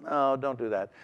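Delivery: soft, offhand mild warning; mild casual not. Shown as a demonstration. Preacher showing the mild Greek not, softly offhand. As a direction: shrug it off, gently dismissive. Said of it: "One is kind of".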